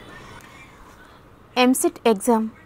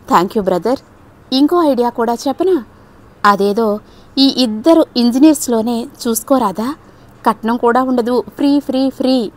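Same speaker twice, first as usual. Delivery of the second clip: cheerful; 2 semitones higher than usual. Acted. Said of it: "హుషారుగా చెప్పింది".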